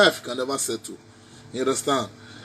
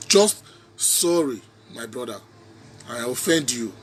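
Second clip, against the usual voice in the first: slow sorry; 3 semitones lower than usual. Real, not acted. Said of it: "You understand?".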